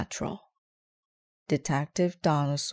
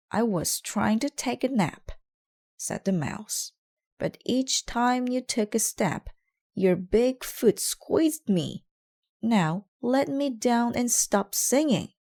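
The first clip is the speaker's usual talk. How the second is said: high, squeaky cross mouse; a tiny mouse scolding; 8 semitones higher, 3 dB louder than usual. Acted. Mouse scolding the detective, high and cross.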